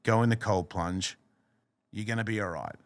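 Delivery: mild, easygoing reassurance; kind inner voice. Retold or imitated. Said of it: "That is not the same voice".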